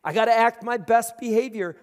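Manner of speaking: mock nervous churchgoer when God enters the room. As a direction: play the anxious good churchgoer. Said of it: "we'd all be like".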